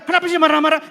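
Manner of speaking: high, loud wifely protest; annoyed questioning. Acted. Voices wife questioning angry husband. (istri protes kesal, suara tinggi)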